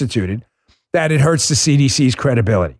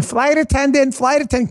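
mock Karen; 10 semitones higher than usual. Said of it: "to go on planes and start screaming".

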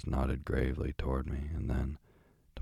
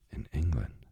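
surprised cry; 2 semitones higher than usual. A narrator's reading. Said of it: "cried the doctor".

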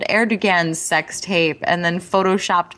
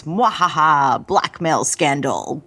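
slow, low sneering villain cackle; sneering panto villain; 3 semitones lower, slower than usual. Retold or imitated. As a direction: gloat like a cartoon villain.

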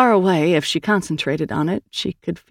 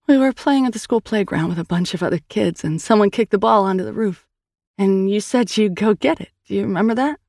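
higher, earnest sister voice; Sal's voice; 4 semitones higher than usual. Acted. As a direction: tell it gently, coaxing a memory. Narrator voices Sal.

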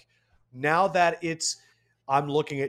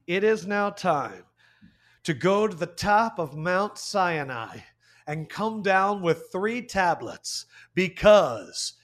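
dramatic announcer build-up; slower than usual. Acted. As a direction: build suspense, slowing down. Building up a show intro.

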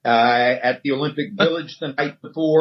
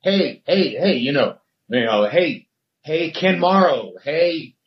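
higher, mild mock yell for attention; hey hey, pitched up like calling across a hallway; retold yelling; 4 semitones higher than usual. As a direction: call out to players passing by. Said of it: "and I'm just yelling".

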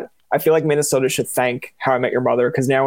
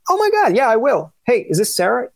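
mock excited tourist; 9 semitones higher than usual. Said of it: "And you're like".

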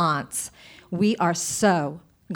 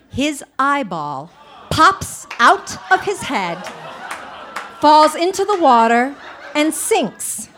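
slow, drawn out; 5 semitones higher, 4 dB louder, slower than usual. Retold or imitated. Retelling the eyeball moment.

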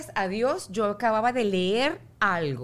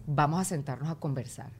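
serious talk; 4 semitones lower than usual. Retold or imitated. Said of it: "Ahora es".

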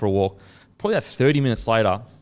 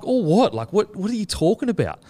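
high, baffled what; retold confusion; 8 semitones higher than usual. Telling mates how baffled he was, high and confused. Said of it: "And I was like".

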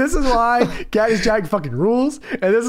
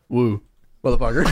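Ric Flair woo; 8 semitones lower than usual. Retold or imitated. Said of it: "The famous Ric Flair quote".

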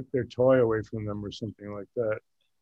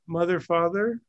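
higher questioning lift at the end; teacher calling on someone; 4 semitones higher than usual. Retold or imitated. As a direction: imitate a teacher calling on a student. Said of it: "That's how he called on me".

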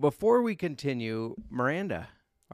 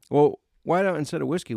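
usual speaking voice

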